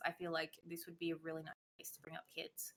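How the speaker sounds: soft unvoiced whisper, half to herself. Real, not acted. Dreaming aloud about raising kids, whispered. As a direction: breathe it out as a dreamy aside.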